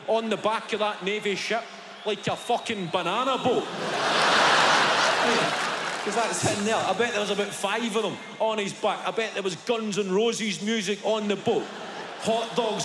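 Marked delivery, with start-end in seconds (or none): none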